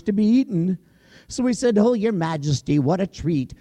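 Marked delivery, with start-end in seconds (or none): 1.8-3.5 high flattering bear that cracks into a squeal; fearful bear, higher and higher; nervous bear. Acted. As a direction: gush sweetly, then blurt the truth.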